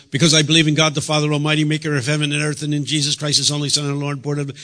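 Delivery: rattling off the creed, fast and rote; mock rattled-off creed. A churchgoer reciting the creed to God, mock rote and fast. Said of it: "No, he's not gonna ask you that question".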